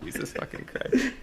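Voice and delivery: breathless laugh through the words; can't stop laughing. Real, not acted. Cracking up at the joke.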